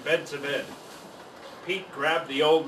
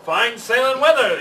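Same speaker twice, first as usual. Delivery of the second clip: yawning; 5 semitones higher, 7 dB louder than usual. A narrator's reading. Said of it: "yawned the bird".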